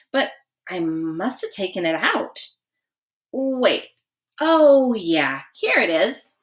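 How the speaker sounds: put-on over-the-top searching kid; hammed-up show. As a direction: ham up the searching, rising to a find. John makes a big show.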